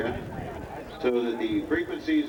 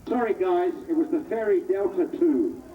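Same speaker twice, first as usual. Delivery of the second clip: upbeat PA announcer calling planes; airshow commentator. Acted. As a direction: call the flyby over the loudspeaker. Live air show commentary.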